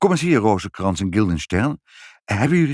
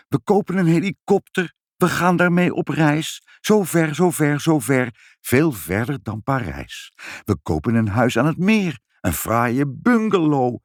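higher, lightly voiced child daydreaming; a lightly voiced excited child; dreamy child excitement; 4 semitones higher than usual. Ibbeltje daydreams about the money.

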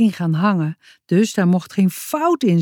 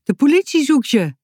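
higher, urgent call; 7 semitones higher than usual. A narrator's reading. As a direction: hurry to warn him. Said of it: "riep ze". (hoger, dringend roepend)

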